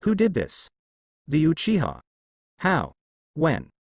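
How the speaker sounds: angry. A narrator's reading. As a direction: demand an answer, rising in anger. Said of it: "Jiraiya stood up angrily".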